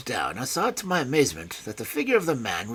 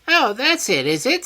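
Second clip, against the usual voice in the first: high, loud, knowing voice; sly satisfaction at the answer; high villain voice feigning ease; high pleased oh; 11 semitones higher, 9 dB louder than usual. A narrator's reading. Smith smiling pleasantly.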